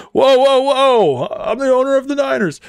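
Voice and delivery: high, mock-alarmed protest; hammed-up indignant bigwig caught out; protesting team owner. Acting out the busted team owner.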